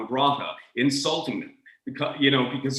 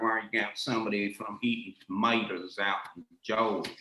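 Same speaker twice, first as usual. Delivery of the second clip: Georgia drawl; 3 semitones lower, 4 dB quieter than usual. Retold or imitated. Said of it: "somebody talking like this".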